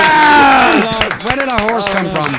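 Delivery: slow, high horse-like dino cry; dinosaur voice. Pretend. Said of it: "It's a dino horse".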